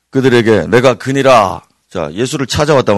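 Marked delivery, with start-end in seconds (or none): 0.7-1.6 loud, authoritative declaration; bold, preacherly voice of the Lord; majestic voice of Jesus. Acted. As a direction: declare it with commanding dignity. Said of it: "위험 있는 주님의 음성".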